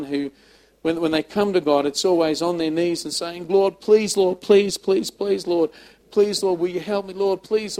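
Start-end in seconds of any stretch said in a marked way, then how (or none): 3.5-7.8 higher, louder repeated pleading; mock begging. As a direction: imitate someone desperately begging, piling up each please. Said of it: "always begging God".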